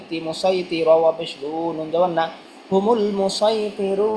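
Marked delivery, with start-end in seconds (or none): 2.7-4.1 drawn-out Quranic reading of হুমুল মুসাইতিরুনা; slow recitation. Shown as a demonstration. Teacher to students, showing the whole word, slow recitation. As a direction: stretch each syllable of হুমুল মুসাইতিরুনা slowly. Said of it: "teacher demonstrates Quran word".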